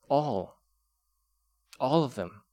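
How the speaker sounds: all and All leaned on and drawn out; emphasis on all. Shown as a demonstration. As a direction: hit the word all, then All of them. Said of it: "with the emphasis on all".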